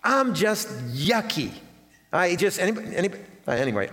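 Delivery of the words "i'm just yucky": a touch of mopey whine, drawn out; mock whiny self-pity. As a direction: sulk it out lightly, like feeling gross. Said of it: "we go".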